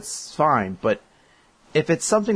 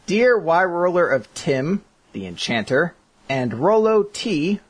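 put-on light Cockney accent, slow; Cockney accent reading the greeting; 4 semitones higher than usual. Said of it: "I only did the beginning in a Cockney accent".

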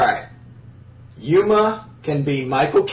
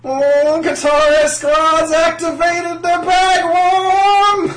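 slow, sing-song celebrity drawl; a hint of Terrence Howard; Terrence Howard impression; 11 semitones higher, 4 dB louder, much slower than usual. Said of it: "my awesome Terrence Howard impersonation".

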